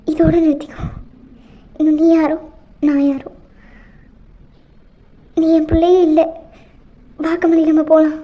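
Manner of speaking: loud, low, cold fury; mother casting off her own daughter; angry disowning. Acted.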